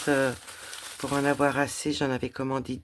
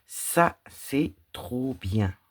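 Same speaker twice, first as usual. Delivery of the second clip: delighted; 4 dB louder, much slower than usual. Real, not acted. Delighted there is no backstitch.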